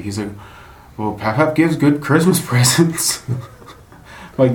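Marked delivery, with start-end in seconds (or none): 1.0-3.2 put-on higher, slower kid-like voice with a laugh; son's voice. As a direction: play the son, matter-of-fact and sweet. Son's reply quoted by dad.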